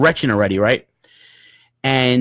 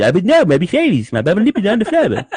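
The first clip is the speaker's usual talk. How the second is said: numbed mouth mumble; 7 semitones higher, 3 dB louder than usual. Retold or imitated.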